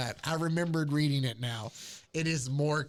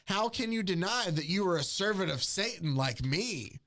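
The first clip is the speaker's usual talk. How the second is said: mock cat voice; 5 semitones higher than usual. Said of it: "The cat says".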